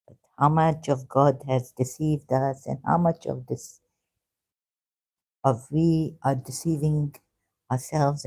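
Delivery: ordinary talk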